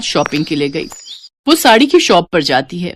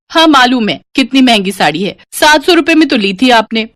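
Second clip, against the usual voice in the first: higher, louder teasing voice; cheeky daughter; 3 semitones higher, 4 dB louder than usual. Acted. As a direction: tease mom about the price. Daughter teases mother.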